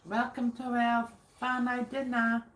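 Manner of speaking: usual speaking voice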